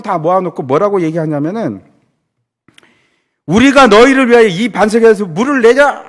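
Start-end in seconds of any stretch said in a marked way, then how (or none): 3.5-6.0 louder, angry preacher's retelling of Moses; mock-angry Moses rebuking the people; angry outburst. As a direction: hurl it out at the crowd in anger. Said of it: "하면서 화를 내면서".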